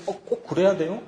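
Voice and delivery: sulky, pouting little protest; pouting objection. Retold or imitated. Doubter objecting to God's choice, pouting. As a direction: pout the question like a sceptic. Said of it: "입꼬리가 삐죽거리면서".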